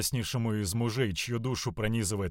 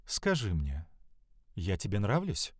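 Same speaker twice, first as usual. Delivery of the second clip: low, hushed coaxing question; teasing lady; 4 semitones lower, 4 dB quieter than usual. A narrator's reading. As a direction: tease him softly. Astarta teasing the youth.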